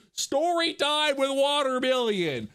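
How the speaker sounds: slow, high show-host intro; announcer voice. Pretend. Announcing story time.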